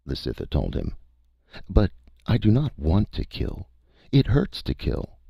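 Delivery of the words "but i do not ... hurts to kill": high, gentle alien voice; alien creature voice. A narrator's reading. The Cytha tells the hunter it hates killing, high. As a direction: lift it high and pained for the creature.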